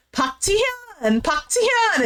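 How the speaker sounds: high, drawn-out name call; K-drama style plea, hammed up; imitated calling after her. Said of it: "calling after. He's like".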